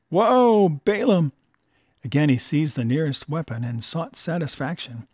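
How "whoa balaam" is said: loud, high shout to the mule. Acted. Old man shouting at his mule Balaam, loud and high. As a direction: bellow it out, pitch jumping up. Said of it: "He arose and shouted".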